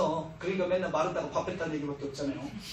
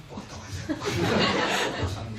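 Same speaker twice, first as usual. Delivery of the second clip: very slow whisper with a laugh in it; conspiratorial whisper; much slower than usual. Acted. John nudging Jesus to say he ate, whispering. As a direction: hush it like a secret tip to the teacher.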